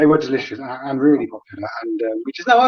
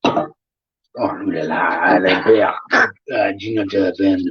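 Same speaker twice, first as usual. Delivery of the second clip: mock French; 5 semitones lower, slower than usual. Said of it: "in my French accent".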